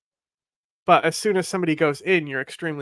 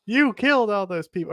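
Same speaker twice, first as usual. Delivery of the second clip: mild imitated heckle, raised pitch; mock yell; 5 semitones higher than usual. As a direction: call out like a heckler, only half-hearted. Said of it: "definitely starts yelling at him".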